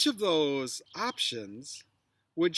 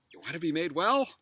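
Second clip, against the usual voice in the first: inviting question; faster than usual. Shown as a demonstration. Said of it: "the way I think I kind of want to go".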